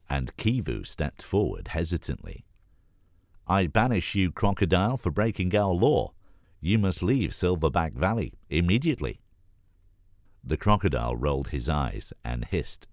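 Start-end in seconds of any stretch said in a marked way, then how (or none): 3.5-9.2 nervous prince trying to sound commanding; young prince proclaiming. Acted. Gorilla prince voiced with authority.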